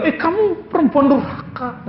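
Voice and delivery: hammed-up scolding of a wife; high, mock outraged husband; mock angry husband. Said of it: "Nggak bilang".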